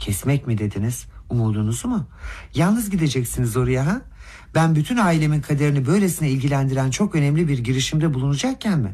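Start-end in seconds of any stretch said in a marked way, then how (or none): none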